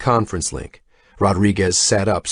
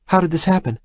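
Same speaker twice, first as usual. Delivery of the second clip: alarmed; 10 semitones higher, faster than usual. A narrator's reading. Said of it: "asked Rodriguez".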